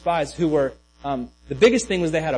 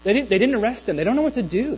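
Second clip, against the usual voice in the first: higher, animated explaining; emphatic; 7 semitones higher, faster than usual. Real, not acted. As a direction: stress their bafflement with raised pitch. Stressing the officers' bafflement.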